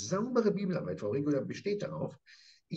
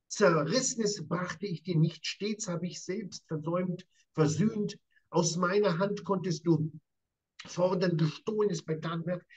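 slow, weighty recitation of the verse; solemn emphatic reading; 3 semitones higher than usual. Acted. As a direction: lay each word down with weight. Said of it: "in sehr deutlichen Worten".

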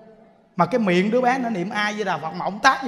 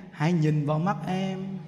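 mock tender line; 3 semitones lower, 3 dB quieter than usual. Mock-romantic line about gazing into eyes.

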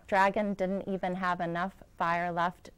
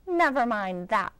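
snapped; 3 semitones higher, 6 dB louder than usual. Acted. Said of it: "snapped Miss Swamp".

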